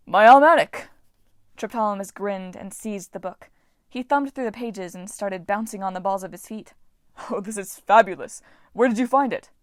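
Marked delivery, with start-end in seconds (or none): 0.1-0.9 delighted. Acted. God overjoyed at the book. 7.3-9.5 excited. Acted. God bouncing with excitement.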